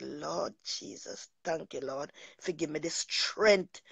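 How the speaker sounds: very soft, slow prayer of thanks; softly and slowly thanking the Lord; hushed prayer. Retold or imitated. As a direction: murmur it slowly to God, barely voiced. Thanking God after the ordeal.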